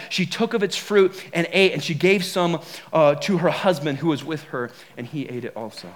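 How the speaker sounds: measured Bible reading to the congregation; scripture reading. Acted. Pastor reading Genesis to the church, measured and solemn.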